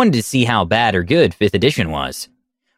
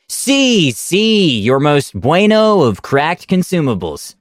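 high, slowing mock Spanish accent, Si pitched way up; hammed-up Spanish accent; 4 semitones higher, slower than usual. Player keeps his fake accent going at the crack house door, hammed-up Spanish accent. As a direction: ham up a cartoon Spanish accent. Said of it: "he's really going to keep doing this".

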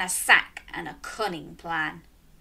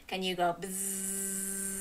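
buzzing bee; 9 dB quieter, slower than usual. Shown as a demonstration. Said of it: "what about some bees?".

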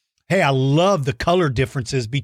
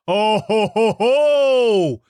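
hearty laugh; 4 semitones higher, much slower than usual. Real, not acted. Host laughing at a kid's birthday news. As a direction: laugh it out, thrilled. Host reacts to fan message.

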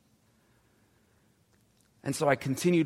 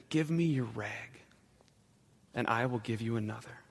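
gently; 2 semitones lower, 4 dB quieter than usual. Acted. Ragman to sobbing woman, gentle and soft. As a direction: hand it over tenderly, barely above a murmur. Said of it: "And he said gently".

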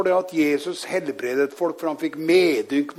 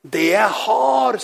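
slow, raised preaching quote; emphatic declaration; 5 semitones higher, 5 dB louder, much slower than usual. Retold or imitated. Preacher quotes Peter to the lame man, emphatic declaration. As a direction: stretch it out as a bold declaration.

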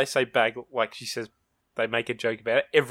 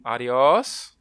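class reply; 6 dB louder than usual. Retold or imitated. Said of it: "Everyone replies back".

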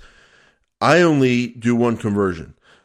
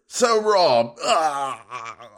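hammed-up Aussie accent; 3 semitones higher, much slower than usual. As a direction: wail it as a caricature Aussie. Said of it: "as they say down under".

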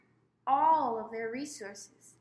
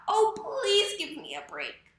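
higher, louder pleading cry; frightened cry; 7 semitones higher, 7 dB louder than usual. A narrator's reading. Snow White pleading with the huntsman, frightened cry. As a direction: beg for your life. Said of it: "She cried".

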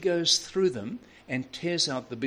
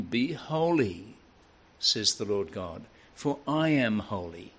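scripture quote; 2 semitones lower, slower than usual. Acted. Quoting scripture slowly.

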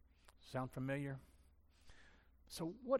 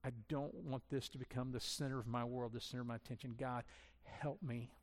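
demo prayer; 2 semitones lower, 5 dB quieter than usual. Shown as a demonstration.

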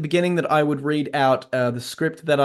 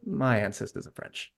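soft, lower reply; slightly apologetic; 4 semitones lower, 8 dB quieter than usual. Acted. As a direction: say it softly, a touch sorry. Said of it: "slightly apologetic".

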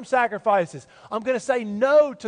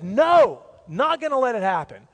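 Peter protesting; 4 dB louder than usual. Retold or imitated. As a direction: blurt it out like jumping up to stop him. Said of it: "Peter jumps up and says".

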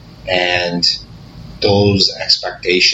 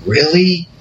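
incredulous really; 8 semitones higher than usual. Real, not acted. Reacting to hurtful funeral remarks.

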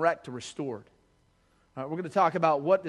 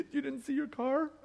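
imitating mom; 8 semitones higher, 5 dB quieter than usual. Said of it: "She's like".

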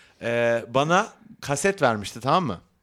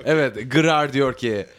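slow announcement; much slower than usual. Acted. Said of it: "şive yapmamak için kendimi zor tutuyorum".

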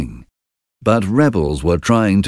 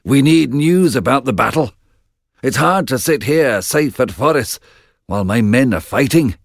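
lightly voiced anxious king; a hint of a worried old king; 6 semitones higher than usual. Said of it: "said King Duncan anxiously".

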